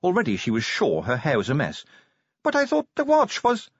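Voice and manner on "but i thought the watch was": high, eager, cut off; earnest objection interrupted; young vampire woman voice. A narrator's reading.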